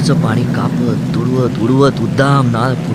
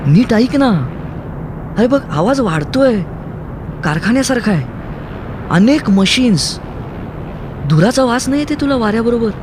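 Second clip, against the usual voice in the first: Kaumudi shouting; 9 semitones higher than usual. Acted. Kaumudi shouting to Aru over the wind. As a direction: shout at him to listen. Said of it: "Kaumudi ओरडली".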